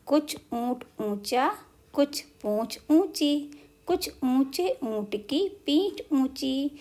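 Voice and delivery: each word of the rhyme said slowly and evenly; slow tongue-twister recital. Shown as a demonstration. Teacher slowly reciting the camel rhyme to children. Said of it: "यदि हम इसको जल्दी जल्दी बोलेंगे".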